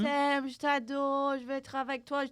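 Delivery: imitating a seductive Frenchwoman cooing endearments; sexy French. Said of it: "like, sexy French".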